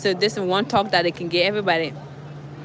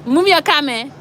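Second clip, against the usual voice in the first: angry seller; 4 semitones higher, 3 dB louder than usual. Retold or imitated. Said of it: "the guy said".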